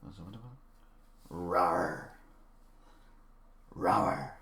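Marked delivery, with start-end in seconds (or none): 1.3-4.3 low, small spoken roar; a lazy ogre roar, drawn out; half-hearted roar. Acted. Streamer asked to do the roar, half-hearted roar. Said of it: "Do the roar".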